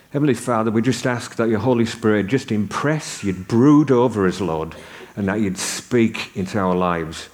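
calm, earnest prayer voice; lightly voiced congregational prayer. Leads a prayer.

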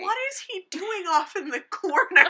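high, loud, laughing question. Retold or imitated. Laughing mock-puzzled quote.

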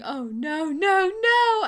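imitating a distraught sheriff, rising into loud, high cries; sheriff's anguished cry. Retelling the sheriff's scene to a co-host, imitated anguish. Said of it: "and the sheriff's going".

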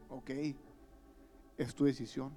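low, soft resigned letting go; quiet resigned voice. Retold or imitated. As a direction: say it softly, giving up. The Lord letting the sinner go. (el Señor, suave y resignado: es tu decisión)

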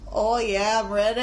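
put-on Australian accent. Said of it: "you're really dragging out the".

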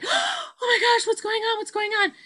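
retold shock at the child sleeping through; amazed gasp. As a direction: gasp it out in disbelief.

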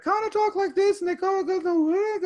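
high sing-song, rising then falling. Shown as a demonstration. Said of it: "their voice goes up and then it comes back down".

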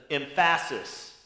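emphasis said em-PHA-sis, stress on the second syllable; wrong-syllable emphasis. Shown as a demonstration. Pastor mispronouncing a word so it sticks: emphasis as em-PHA-sis. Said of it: "I said emphasis wrong, so it stand out to you".

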